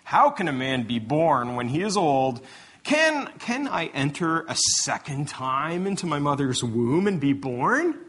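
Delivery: mock incredulous. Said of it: "crass interpretation".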